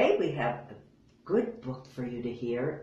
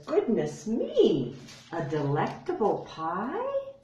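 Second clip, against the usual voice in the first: surprised; 5 semitones higher than usual. Acted. Bear's surprised line.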